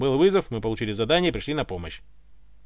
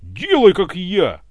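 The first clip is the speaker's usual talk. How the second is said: much higher and louder battle cry; furious ringing yell; 6 semitones higher, 9 dB louder, much slower than usual. A narrator's reading. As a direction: bellow it with ringing rage. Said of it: "заорал Иван звенящим от ярости голосом".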